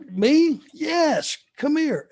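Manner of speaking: two quick voices, light and mocking; surprised reply. Wrestler startled at being called, mock surprise. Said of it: "And he, uh".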